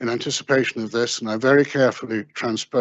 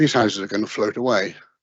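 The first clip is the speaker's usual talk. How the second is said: ordinary delivery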